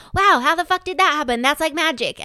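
amazed wow. Retold or imitated. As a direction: marvel at it, quick and high. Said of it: "And I'm like".

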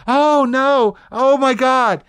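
high, loud shocked squeal; imitating a roomful of gasping onlookers; mock gasping crowd. Crowd of guys squealing at smashed Fiesta ware, high and loud. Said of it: "room full of gay men going".

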